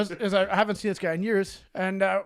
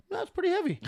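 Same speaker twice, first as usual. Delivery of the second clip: deadpan quote; 12 semitones higher than usual. Retold or imitated. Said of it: "He's like".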